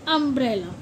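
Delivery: अम्ब्रेला with a short "uh" at the start; teacher repeats अम्ब्रेला; अम्ब्रेला as "um-brel-la"; model pronunciation of umbrella. Shown as a demonstration. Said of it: "क्या बोलते हैं?".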